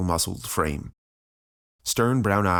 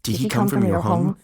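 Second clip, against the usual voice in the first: raised, pressing woman's voice; urgent questioner; 4 semitones higher, 4 dB louder, much faster than usual. A narrator's reading. Woman questions Promethean before they are found, urgent. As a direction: press for answers as time runs out. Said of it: "her barrage of questions".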